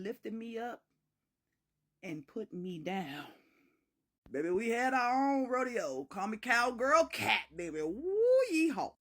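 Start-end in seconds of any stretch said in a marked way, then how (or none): 4.3-8.9 playful cowgirl whoop. Acted. Bragging to listeners about their own rodeo, playful whooping.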